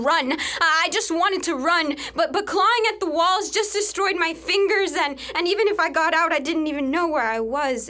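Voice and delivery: a captive reliving her frantic urge to flee; panicked rush. Acted. Panicked memory of escaping.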